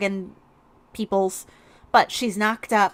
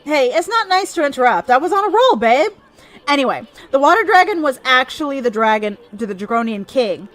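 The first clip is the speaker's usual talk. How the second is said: cheeky sidekick voice. Acted. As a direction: play the cocky tiny companion. Voices the companion Issun again.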